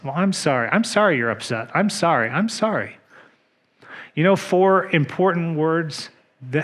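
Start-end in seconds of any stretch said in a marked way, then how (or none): 0.0-3.0 tossed-off, dismissive sorry, rising on the last ones; careless apology. Retold or imitated. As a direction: brush it off like a meaningless reflex apology. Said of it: "It's almost meaningless".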